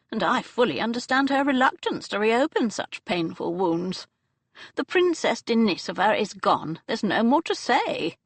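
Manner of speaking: the dowager settling the matter; elderly Duchess. Acted. Aunt explaining Anya's past, lightly voiced old lady.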